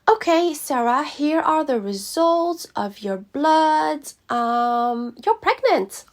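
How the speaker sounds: high, loud, drawn-out receptionist lilt; imitated clinic assistant building to a reveal; assistant announcing results. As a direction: stretch out the suspense, then pop the news high. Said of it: "And she said".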